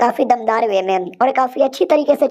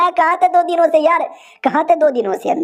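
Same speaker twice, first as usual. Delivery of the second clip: high mock-tearful whine, easing down; acted tearful complaint; 5 semitones higher than usual. Wife asking husband where he has been, hammed-up tearful reproach. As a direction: complain as if crying, pitched up then settling. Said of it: "क्यों रो रही हो".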